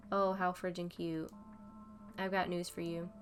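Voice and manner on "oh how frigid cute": slow mocking sneer; sarcastic drawl. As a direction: drag it out with contempt. Mocking Stella's praise of Day.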